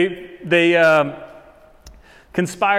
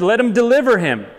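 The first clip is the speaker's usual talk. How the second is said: raised, louder mock challenge; higher-pitched imitation of taunting onlookers; mocking crowd; 4 semitones higher, 3 dB louder than usual. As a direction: imitate jeerers daring God to act. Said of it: "they would mock him".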